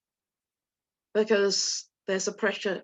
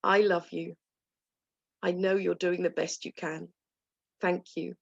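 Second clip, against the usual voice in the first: tender self-talk; 4 semitones lower, 3 dB quieter than usual. Shown as a demonstration. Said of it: "Can you say that to yourself".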